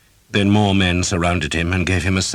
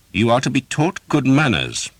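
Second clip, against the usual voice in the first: higher, louder gloating threat; menacing knight; 10 semitones higher, 5 dB louder than usual. A narrator's reading. Knight gloating over the pinned archer, menacing. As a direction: relish the coming punishment. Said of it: "he said".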